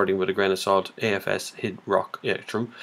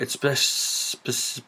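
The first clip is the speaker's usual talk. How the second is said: slow stumbling words, loose dentures; tripping over a word with loose dentures; 3 semitones higher, 6 dB quieter, much slower than usual. Real, not acted. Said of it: "I can't speak".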